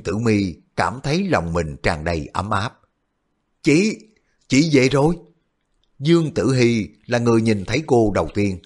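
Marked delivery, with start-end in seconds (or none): 3.6-5.2 put-on high, bright child calling out; an excited little sister calling; little girl voice. Little sister greets returning sibling.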